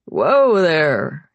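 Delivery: loud, low "easy there"; startled caution. A narrator's reading. Nick catching her as she stumbles, loud caution. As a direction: call out to halt a stumble.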